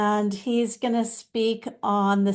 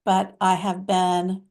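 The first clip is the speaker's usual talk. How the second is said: lightly voiced mystical master, measured phrases; Babaji. Channeled master addressing followers, lightly put-on deliberate sage voice. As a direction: speak as a loving spiritual teacher, pausing often, leaning on key words.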